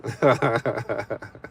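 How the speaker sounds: short run of giggly chuckles. Real, not acted. Streamer thanking a viewer as sis, amused chuckle. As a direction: chuckle it out quickly. Laughs after calling her sis.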